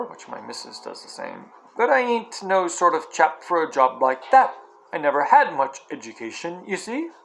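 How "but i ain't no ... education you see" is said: cockney cabbie. Acted. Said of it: "sharp, quick voice of a cockney".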